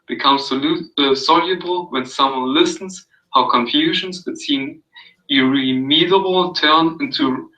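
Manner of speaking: calm, even read-aloud of a passage; soothing reading. Acted. Reading Carl Rogers to a friend, soothing read-aloud. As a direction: read it gently, like an audio book. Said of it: "It was so soothing".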